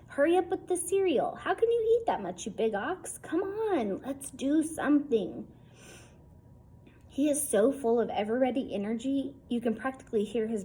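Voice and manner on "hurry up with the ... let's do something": put-on much higher, pushy kid voice; impatient boy. Small boy nagging his big friend at breakfast, high and pushy.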